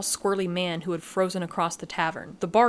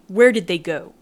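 loud, hard growl; growled demand; 9 dB louder than usual. A narrator's reading. Growling at Lath to tell where they went. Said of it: "I growled".

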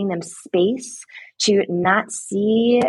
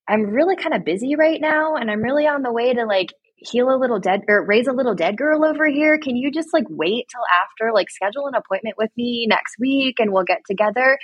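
higher-pitched, lightly put-upon excuse; politely fob someone off, mock-apologetic; imagined too-busy reply; mock busy brush-off; 4 semitones higher than usual.

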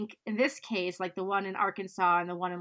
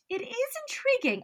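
quoted expert. Retold or imitated. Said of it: "Madge says, quote".

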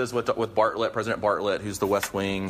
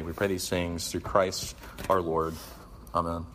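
prayer. Acted. Opening prayer in talk.

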